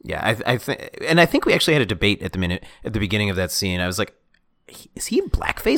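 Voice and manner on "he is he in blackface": unsure, high whispered aside during a film; whispered question. Retold or imitated. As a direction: whisper it in disbelief. Reenacting hushed debate during film.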